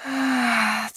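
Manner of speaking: drawn-out weary sigh; long sigh. A narrator's reading. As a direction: sigh it out slowly before speaking. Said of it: "dlouze povzdechla".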